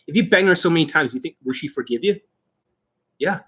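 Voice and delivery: ordinary talk, nothing marked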